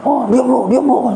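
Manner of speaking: a hint of a possessed woman snapping. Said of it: "kesurupan, ngamuk-ngamuk".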